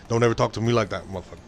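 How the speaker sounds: low menacing switch; double voice switch. Retold or imitated. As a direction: snap into a threatening low growl. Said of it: "the double voice where she would be like".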